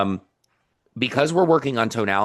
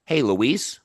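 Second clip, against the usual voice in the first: "Hey, Luis" rising at the end; tonality demo. Shown as a demonstration. Coach models a greeting for Maria, questioning tune. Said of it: "we're working on tonality and inflection".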